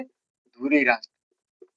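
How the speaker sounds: धुरी राष्ट्र spelled out word by word, very slowly; slow it right down so students can write धुरी राष्ट्र; very slow dictation. Shown as a demonstration. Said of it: "क्या कहते थे?".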